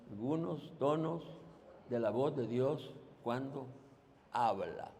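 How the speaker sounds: soft group murmur; a low crowd echo of the phrase; quiet repeat in unison; congregation repeating softly. Real, not acted. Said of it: "Repítanlo así usted solito".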